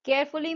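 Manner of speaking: three stretched, separate beats on केयरफुली; syllable by syllable. Shown as a demonstration. Teacher shows three claps in केयरफुली, syllable by syllable. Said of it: "तो तीन बार हो रहा है clap".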